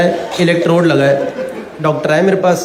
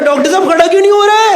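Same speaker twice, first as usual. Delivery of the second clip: desperate plea; 8 semitones higher, 3 dB louder, faster than usual. Retold or imitated.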